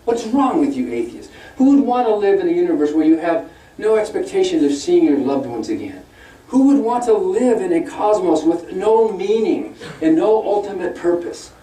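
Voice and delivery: mock sermon of moral outrage; mock lecturing. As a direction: scold them as a preacher would, climbing in pitch. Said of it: "he was lecturing us atheists".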